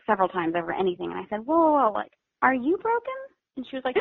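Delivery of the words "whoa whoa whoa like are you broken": much higher pitched, gentle interruption; retold concerned reassurance. Foster mom to child who broke an ornament, retold concern. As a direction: check on an upset child, pitched up.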